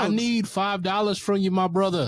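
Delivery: high, projected preacher imitation; Southern Baptist preacher. Friend mocking the guest's preacher talk on the street. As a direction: preach the request for cash. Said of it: "just on the street being like".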